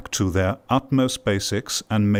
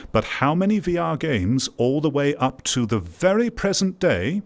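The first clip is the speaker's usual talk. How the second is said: exasperated rhetorical rant, pitched higher; impassioned complaint; 4 semitones higher than usual. Real, not acted. Creator laments VR's failings to viewers, impassioned complaint. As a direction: build an emphatic, higher-pitched case of frustration.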